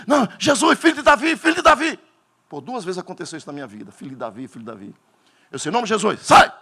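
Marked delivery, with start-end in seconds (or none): 0.1-2.0 high, loud anguished cry; possessed crying out. Retold or imitated. Poseído grita ante Jesus. 3.9-5.0 soft, low murmured repeat; faded echo. Retold or imitated. Eco susurrado del grito. 5.7-6.5 loud exorcising command; commanding shout. Retold or imitated. Expulsión del demonio.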